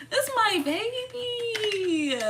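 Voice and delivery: high, very slow wail; drawn-out, high-pitched lament; tearful whine. Real, not acted. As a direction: whine it out, half crying. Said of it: "I'm gonna cry".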